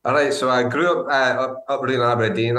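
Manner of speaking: put-on thick Aberdeen Scottish accent; heavier Scottish accent. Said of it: "Is that you putting on a more heavy Scottish accent?".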